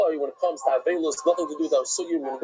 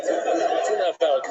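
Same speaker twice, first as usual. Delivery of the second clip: laughing; slower than usual. Real, not acted. Laughs at his own joke.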